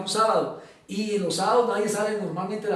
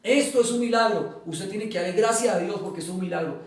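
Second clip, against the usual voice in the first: insistent. Retold or imitated. Notifier urging prisoner to thank God, insistent. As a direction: press the point like someone repeating it. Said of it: "me decía reiterativamente".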